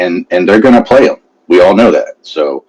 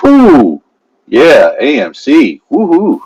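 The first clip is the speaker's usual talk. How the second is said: excited; 8 semitones higher, 4 dB louder, slower than usual. Real, not acted. Celebrating AMC price.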